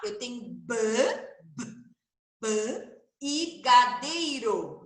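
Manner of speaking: b, b repetido, depois b e gadeiro bem lento; som do b isolado. Shown as a demonstration. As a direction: solte o b sozinho e estique gadeiro. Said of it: "Já tô falando o som do B". (b, b, gadeiro silabado)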